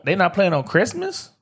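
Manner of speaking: incredulous. Real, not acted. Fan protesting Miami left off Christmas schedule, incredulous. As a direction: pitch climbing into a disbelieving question.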